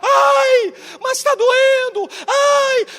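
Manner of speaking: very high, loud crying scream; screaming child. Retold or imitated. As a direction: wail as a child in real pain. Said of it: "e ela gritava".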